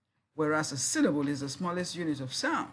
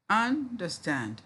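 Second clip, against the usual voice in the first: "understand" slower and higher, first syllable held; drawn-out syllables; 4 semitones higher, slower than usual. Shown as a demonstration. Teacher asking how many syllables, drawn-out syllables. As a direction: stretch out the parts of "understand". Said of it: "How many syllables we have there?".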